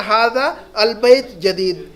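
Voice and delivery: हादा अल बैत जदीद said slowly with the alif sounded, हादा and अल kept apart; slow, syllable by syllable, the long aa of हादा held before a separate अल; separated hada al. Shown as a demonstration. Teacher to students, showing the unjoined reading slowly. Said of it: "लेकिन ऐसा नहीं पढ़ेंगे हम".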